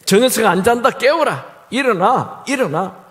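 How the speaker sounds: commanding father's wake-up call; mock angry father. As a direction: rouse the sleeping boy. Father orders son woken.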